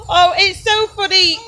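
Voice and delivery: high-pitched, still giggly; amused high voice with laughter left in it; tickled, recovering from laughter. Real, not acted. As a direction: catch your breath after cracking up.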